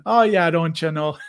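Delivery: put-on playful north-of-Madison Midwestern accent; Upper Midwest accent. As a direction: lean into an Upper Midwest lilt. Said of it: "I love our accents".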